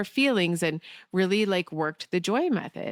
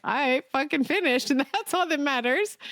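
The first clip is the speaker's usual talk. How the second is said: triumphant inner cry; 8 semitones higher than usual. Retold or imitated. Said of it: "In my mind, I'm like".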